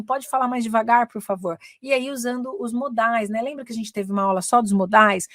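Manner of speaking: usual speaking voice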